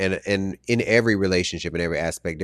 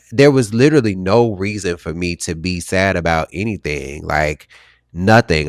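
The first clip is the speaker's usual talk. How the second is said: emphatic insistence; 6 dB louder than usual. Real, not acted. Insisting life was good yet depressed.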